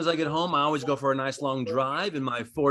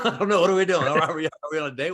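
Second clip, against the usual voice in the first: mock fluster; 2 semitones higher, 3 dB louder, faster than usual. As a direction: get comically flustered at the waiter. Flustered diner reacts to shared dining.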